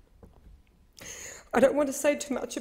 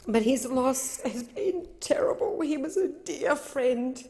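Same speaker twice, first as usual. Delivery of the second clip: slow, tearful and halting; slower than usual. Real, not acted. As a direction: push through the tears. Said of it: "I'm crying".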